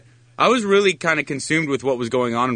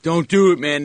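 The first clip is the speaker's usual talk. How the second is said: retold plea; 4 semitones higher, 4 dB louder, slower than usual. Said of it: "And they're like".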